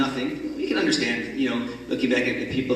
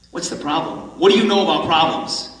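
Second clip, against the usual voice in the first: a touch of angry pushback, rising on the second line; mild irritated snap at a stranger; angry retort; 3 semitones higher than usual. Retold or imitated. Joe snaps back at the stranger in the diner, mildly angry. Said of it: "Joe looks back at him angrily".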